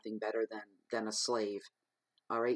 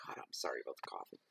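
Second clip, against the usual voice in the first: muttered aside; 10 semitones lower, 8 dB quieter, faster than usual. Real, not acted. Repeated apology muttered low and fast.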